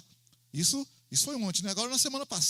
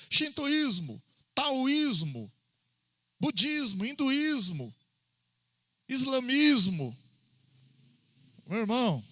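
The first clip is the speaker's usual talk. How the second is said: slow, louder emphatic sermon voice; preaching; 4 dB louder, slower than usual. Acted. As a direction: preach it slowly, driving each word. Preaching builds to full force. (pregação enfática, lenta e mais forte)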